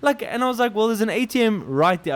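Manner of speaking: loud, high, exasperated yelling; angry shout. Retold or imitated. Yelling at the buyer who shortchanged him, angry.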